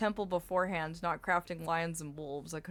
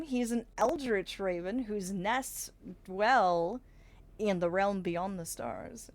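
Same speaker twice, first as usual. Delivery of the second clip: storyteller; slower than usual. Acted. Grand introduction of the raven.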